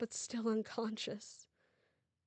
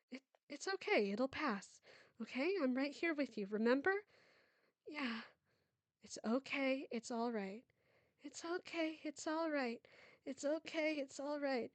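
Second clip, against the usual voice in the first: soothing mother; 5 semitones higher than usual. Acted. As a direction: hush her gently over and over. Mother soothing her sick daughter.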